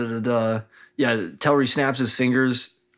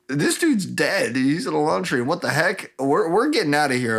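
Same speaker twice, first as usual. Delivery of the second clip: mock alarm; 5 semitones higher than usual. Retold guards panic and flee.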